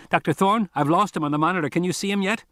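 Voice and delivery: put-on high anxious boy's voice; a kid checking in nervously; kid's voice. A narrator's reading. Kid voiced over radio.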